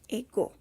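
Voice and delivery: "ego" starting straight on the vowel, no h; smooth breathing. Shown as a demonstration. Teacher reading the first example, smooth breathing. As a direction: say "ego" with no aspiration before the e. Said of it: "cuenta con un espíritu suave".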